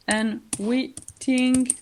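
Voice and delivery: Unwittingly spoken slowly, each syllable clear; careful pronunciation. Shown as a demonstration. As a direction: spell out Unwittingly slowly for the class. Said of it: "like this".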